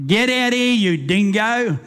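mock-angry sergeant hollering at a drunk; gruff cop call-out. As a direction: bark him out of hiding, stretching you dingo. Cop yelling at hiding drunk.

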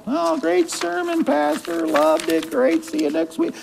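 high, soft, breezy mock churchgoer. Pastor mimicking a churchgoer brushing off the sermon, breezy mock praise. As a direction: brush off the sermon as a gushing listener. It gets filed.

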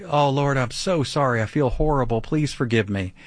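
mild mock pleading; hammed-up contrite begging; begging prayer. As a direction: act out an anxious plea for forgiveness. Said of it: "all the begging and the pleading".

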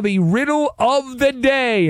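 radio host hyping his quiz segment, slow and showy; announcer build-up. Shown as a demonstration. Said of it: "announces the segment".

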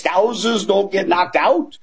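slow, badly faked British accent; terrible British accent. Bettor quoting a fighter's boast in a terrible British accent. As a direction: drag it out in an amateur Scouse impression. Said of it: "That's my terrible British accent".

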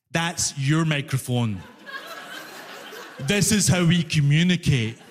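slow, condescending clerk; patronising explanation. Retold or imitated. Fare collector shows passenger how they communicate, patronising. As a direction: lay it out word by word for a simpleton.

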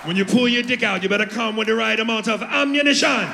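hammed-up Jamaican warning; Jamaican accent. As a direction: lecture him in Jamaican patois. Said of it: "Jamaican broad".

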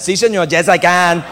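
lightly put-on Latino accent; mock Latino accent. Actor answering a casting boss, mock Latino accent.

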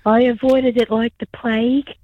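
hoarse, strained voice with laryngitis. Real, not acted. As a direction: rasp through a sore throat. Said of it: "rest up with the voice".

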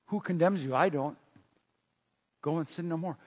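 softly spoken, lightly voiced reassurance; gentle forgiveness. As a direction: let them off softly, without force. Jesus gently forgives the accused woman.

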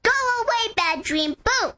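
a child's mock-loud banishing call; said really loud. Shown as a demonstration. A girl showing a man how to chase off bad dreams, mock loud. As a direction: shout the bad dream off, playfully. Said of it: "you just say really loud".

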